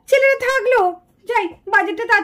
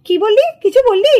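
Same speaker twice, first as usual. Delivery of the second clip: louder, sharp demand; stern challenge; 5 dB louder than usual. Acted. Mother confronting her daughter over the muttered remark, louder and stern. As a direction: catch the muttered remark and call it out. Mother catches child's grumble.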